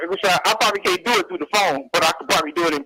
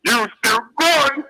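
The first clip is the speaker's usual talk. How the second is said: slow, raspy crooning jazz-singer voice; slow jazz croon, long held notes; impression of a famous jazz singer; 3 semitones higher, slower than usual. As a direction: drawl it out like an old jazz singer singing to Dolly. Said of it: "It goes a little something like this".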